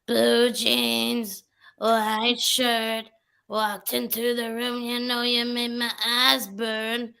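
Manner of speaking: droning, drawn-out imitation of a doll; lightly put-on doll voice, each phrase held on a level note; deep doll voice. Showing friends how the TikTok doll talks, mock deep drone. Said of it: "a deep voice".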